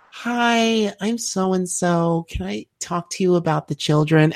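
high, chirpy pitch; charity worker greets passersby, high and chirpy; eager charity girl. Retold or imitated. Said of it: "she's like".

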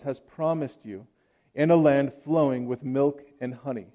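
measured, solemn reading of scripture aloud. Acted. Reader proclaiming Deuteronomy to the congregation, solemn reading. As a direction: read it like the lesson from the pulpit.

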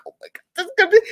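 high, excited gasp of joy; excited squeal. Retold or imitated. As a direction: squeal as the gift is opened. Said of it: "You're like".

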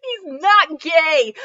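high, slow, cracking up through it; can't hold it together, laughing; laughing repeat. Real, not acted. Reader losing it at the line, high and slow through laughter.

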